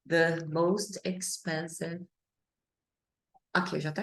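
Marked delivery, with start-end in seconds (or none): 0.1-2.1 very slow, every word spaced out; careful classroom model; slow model phrase. Shown as a demonstration. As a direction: say it slowly for students to copy.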